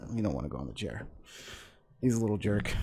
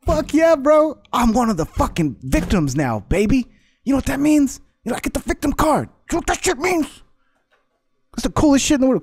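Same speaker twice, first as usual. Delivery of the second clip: much higher and louder, a squealing mock bro; mock gleeful bro; 11 semitones higher, 6 dB louder than usual. Mocking the interviewee as a gloating bro, high and loud. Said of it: "He's like".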